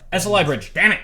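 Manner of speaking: annoyed at own slip; frustrated self-correction. Real, not acted. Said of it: "Why do I keep saying".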